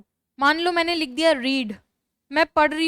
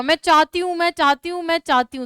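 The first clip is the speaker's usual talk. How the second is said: repeating it louder and insistent; mock shouting; 4 semitones higher, 4 dB louder than usual. Shown as a demonstration. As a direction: call it out like a demanding child. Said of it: "मैं जोर जोर से चिल्ला रही हूँ". (ज़ोर से चिल्लाकर दोहराना)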